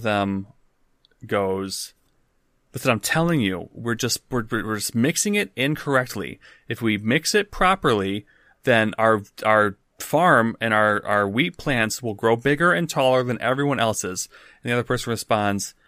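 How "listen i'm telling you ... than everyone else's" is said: mildly insistent arguing; bickering. Acted. Farmer bickering with his partner about the mix, insistent. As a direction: argue your point with a touch of exasperation. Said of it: "bickering voices enter".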